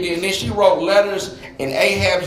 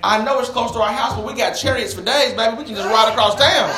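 animated urging, growing higher and more insistent; coaxing persuasion; 4 semitones higher than usual. Acted. Wife talks the king out of the garden, coaxing. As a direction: talk him out of it with rising insistence.

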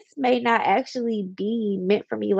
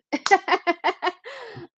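laughing; 10 semitones higher than usual. Real, not acted. Laughs after "listen.

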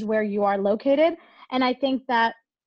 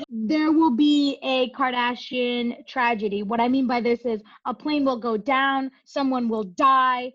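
slow, solemn prophecy voice; fortune teller; slower than usual. Pretend. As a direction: pronounce it like an omen. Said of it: "that's a damn fortune teller".

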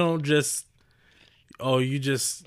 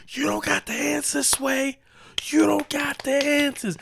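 high soft quote; soft line from a rapper; 11 semitones higher than usual. Shown as a demonstration. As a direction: say the rant gently. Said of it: "Instead of".

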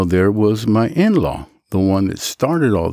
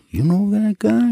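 surprised inmate; 12 semitones higher than usual. Retold or imitated. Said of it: "they go".

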